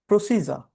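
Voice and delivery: "প্রসিজা" with a silent final r; British pronunciation. Shown as a demonstration. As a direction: say "প্রসিজা" ending on an open "ja", no r. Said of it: "British প্রনাউন্সিয়েশনে এটাকে বলা হয়".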